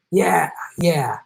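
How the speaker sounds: dismissive yeah yeah under the breath; a sarcastic whispered yeah yeah. Real, not acted.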